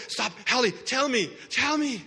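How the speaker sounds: pleading, rising on each tell me; eager plea. Acted. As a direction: grab them and beg. Blind man begging passerby.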